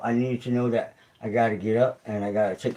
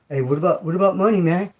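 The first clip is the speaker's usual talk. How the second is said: mock viewer question; 7 semitones higher, 6 dB louder than usual. Imagined viewer asks.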